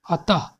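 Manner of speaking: atah with "ha" at the end; final visarga sounded. Shown as a demonstration. Teacher giving an example of visarga, atah ending on "ha". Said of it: "last में ह आ रहा है".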